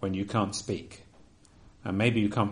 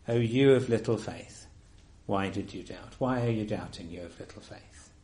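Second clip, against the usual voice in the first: gentle rebuke. Retold or imitated. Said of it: "he says the words of verse thirty-one".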